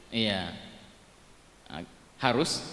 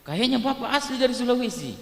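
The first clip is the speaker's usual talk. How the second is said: higher, louder host voice; radio host; 10 semitones higher, 5 dB louder than usual. Retold or imitated. Radio host teasing the caller about his accent, higher and louder. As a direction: play the amused radio host. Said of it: "hostnya bilang".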